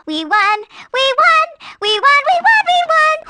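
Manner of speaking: victory cheer. Acted. Heroes after defeating the villain, excited cheers. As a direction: celebrate with each shout.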